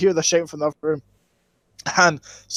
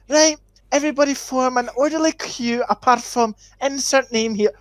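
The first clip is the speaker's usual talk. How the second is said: teacher voice; 5 semitones higher than usual. Retold or imitated.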